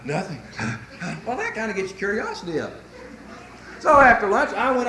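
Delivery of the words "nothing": imitating breathlessness. Wife back at lunch explaining herself, out of breath. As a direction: mimic someone puffing after exertion.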